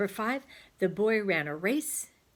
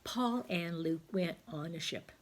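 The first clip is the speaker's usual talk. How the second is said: slow, deliberate dictation; slow model sentence; 4 dB quieter, slower than usual. Shown as a demonstration. Teacher modelling the joined sentence slowly. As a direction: spell it out slowly for the children. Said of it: "So our fancy sentence would say".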